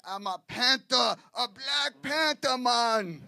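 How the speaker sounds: put-on loud, high West Indian accent; imitated indignant West Indian wife. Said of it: "She looked at me and she says".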